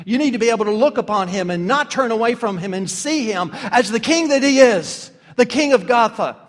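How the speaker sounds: preacher urges the church to see the king, building to a loud peak; rising preaching. Real, not acted. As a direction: drive the point home to the congregation.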